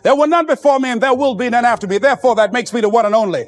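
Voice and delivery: smooth hyped-up radio DJ rap; radio DJ patter. Retold or imitated. A young DJ on his first broadcast, hyped patter. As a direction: sell yourself like a jive radio host. DJ on-air intro, radio persona.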